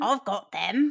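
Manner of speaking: nefarious villain voice. Performing a line after being asked: Bond villain voice. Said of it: "Can you do it for me like a Bond villain?".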